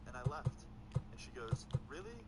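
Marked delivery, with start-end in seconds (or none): 1.9-2.2 sharp high "Really?"; disbelieving challenge, jumping up high; incredulous. Retold or imitated. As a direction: sister calls out his story in mock disbelief. Sister-in-law challenges his story.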